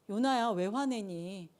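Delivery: soft, slow, tender question; patient divine voice, acted; gentle questioning. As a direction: ask it softly, drawing the words out. God gently questions angry Jonah.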